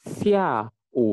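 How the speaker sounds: xia u with xia dropping from high, u dipping; falling fourth tone. Shown as a demonstration. Teacher introducing the afternoon word, xia falling, u dipping. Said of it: "Xia nadanya ini keempat ya, turun".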